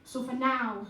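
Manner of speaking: measured, earnest poetry performance; spoken word poem. Acted. Poet performing her own verse to the audience, earnest. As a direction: recite it like a poem on stage.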